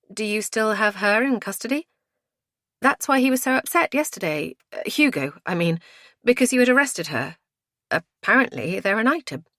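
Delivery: high, lively female questioning; inquiring woman. A narrator's reading. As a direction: raise the voice and explain earnestly. Voices Hannah questioning inspector.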